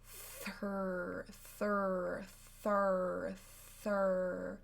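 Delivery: quick repeated thir-, thir-. Shown as a demonstration. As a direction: speed up the thir- syllable. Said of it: "go faster and faster".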